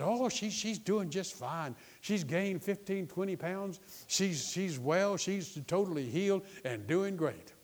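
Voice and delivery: lightly voiced upbeat messenger; glad report. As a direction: act out a man bringing good news. Acts man's good report.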